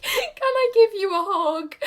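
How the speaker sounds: high, loud and slow, choked with tears; asking for a goodbye hug through sobs; tearful question. Retold or imitated. And I was just sobbing.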